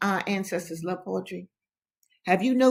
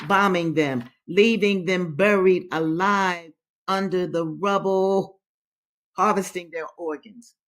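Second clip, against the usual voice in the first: poem reading. Acted. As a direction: read the poem gravely, weighing each line. Reads a poem aloud.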